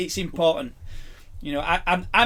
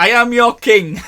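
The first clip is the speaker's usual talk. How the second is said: roaring tyrant king; 6 semitones higher, 9 dB louder, slower than usual. Pretend. Mock royal proclamation.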